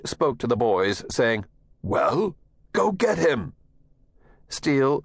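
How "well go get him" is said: tense coach. Acted. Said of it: "the tension in the coach's voice".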